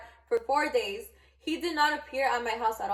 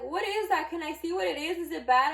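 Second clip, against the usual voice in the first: lightly voiced, higher-pitched curious kid; imitated curious child; 5 semitones higher than usual. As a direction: pester with eager little questions. Little Johnny pesters with questions.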